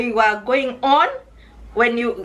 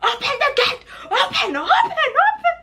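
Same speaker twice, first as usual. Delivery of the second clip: a touch of a guard's quick command, high; lightly voiced guard ordering the gate open; urgent order. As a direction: hurry them to open. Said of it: "the guy immediately was like".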